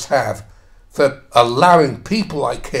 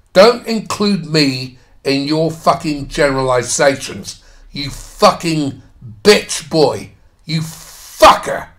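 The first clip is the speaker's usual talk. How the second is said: angry insults, slowing and getting louder towards the end; real indignant outburst; 3 dB louder than usual. Real, not acted. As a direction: lash out at the writer, punching each insult. Indignant outburst at the article's author.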